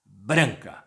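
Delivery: normal talking voice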